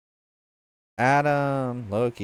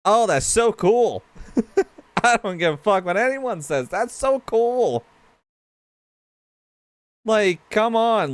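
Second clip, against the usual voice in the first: thrilled gushing; 9 semitones higher than usual. Real, not acted. Gushing over the Warhammer clip.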